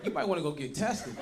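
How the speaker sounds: mock-nervous, awkward suggestion; nervous phone call. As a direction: break it gently, a touch nervous. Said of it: "On the phone, nervous and shit".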